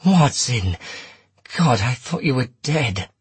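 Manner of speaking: high, urgent cry of relief; cried out. A narrator's reading. Holmes to Watson from the doorway, crying out. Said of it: "Holmes cried from the doorway".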